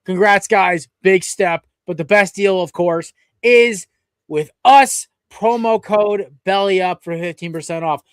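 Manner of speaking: upbeat podcast announcer delivery; sponsor read and intro. Real, not acted. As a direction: read the sponsor, then present the guest.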